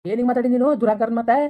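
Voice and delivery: heated, affronted questioning; angry rebuke. Acted. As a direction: scold her for insolence. Grandfather rebukes her for talking back.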